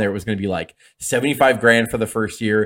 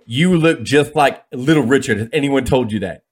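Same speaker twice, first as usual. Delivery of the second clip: a slightly raised, leisurely booker's voice; Dusty Rhodes; 2 semitones higher, 3 dB louder than usual. Retold or imitated. Booker tells the new wrestler who he resembles, lightly put-on voice.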